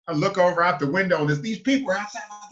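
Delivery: usual speaking voice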